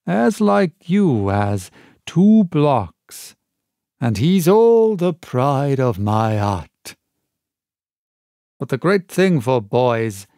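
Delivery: half fawning, half sneering seaman; Black Dog. Acted. Pirate lecturing the boy on discipline, lightly voiced.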